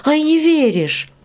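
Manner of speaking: put-on high, slow teasing old woman's voice; mocking old beetle. Old beetle mocks Varya for doubting the tale. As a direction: tease the girl like a cackling crone.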